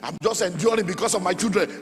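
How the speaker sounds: imitated protesting wife. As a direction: lightly voice a wife confiding in her pastor. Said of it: "What your wife has told me about you".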